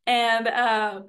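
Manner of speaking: ordinary delivery, nothing marked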